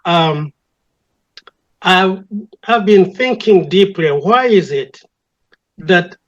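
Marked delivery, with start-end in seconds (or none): none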